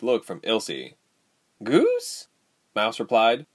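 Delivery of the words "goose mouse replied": high-pitched incredulous echo; puzzled squeak of a question; baffled. A narrator's reading. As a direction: repeat the word in disbelief, pitch shooting up. Mouse baffled by the name.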